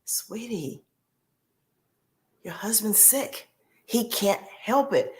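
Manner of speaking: whispered, slow reassurance to herself; calm yourself down in a hush; soft self-talk. Retold or imitated. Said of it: "I was like".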